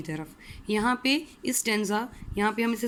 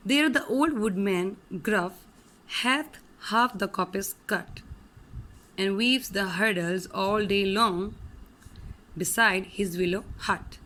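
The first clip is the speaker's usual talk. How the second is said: slow, measured poem recital; slow recitation; poem reading; much slower than usual. Shown as a demonstration. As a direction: read it out like a poem.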